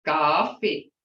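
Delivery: Coffee with an open ah; Muskogee coffee. Shown as a demonstration. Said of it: "See, hear that difference?".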